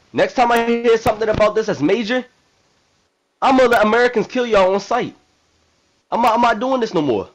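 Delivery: emphatic, defiant address to the nation; rally the people and warn the enemy; fiery presidential speech. Acted. President addressing all Americans about the killings, fiery speech. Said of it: "I wanna give a fucking speech".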